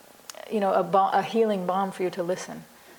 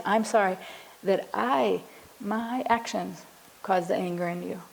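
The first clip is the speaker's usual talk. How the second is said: sincere apology. Shown as a demonstration. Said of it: "that feels more sincere on both sides".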